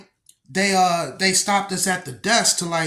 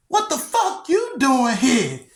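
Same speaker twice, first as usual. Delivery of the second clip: shouting back; 6 semitones higher than usual. Retold or imitated. Sister shouts same question back.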